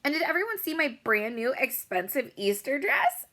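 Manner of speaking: very high, loud, showy bragging; bragging girl. A narrator's reading. Rich girl welcoming everyone to her giant house, very high and showy. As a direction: gush over your own party. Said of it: "she asked".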